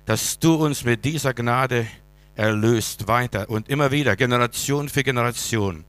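loud, fervent prayer voice. Acted. Pastor praying aloud for the church. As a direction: pray out over the congregation.

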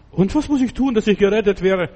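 jailer's plea. Retold or imitated. Kerkermeister fragt verzweifelt.

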